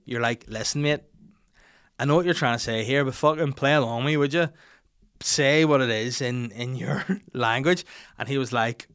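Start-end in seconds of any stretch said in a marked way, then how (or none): 0.5-7.8 retold tipsy exasperation; annoyed. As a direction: press him to play along. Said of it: "at this point you get annoyed".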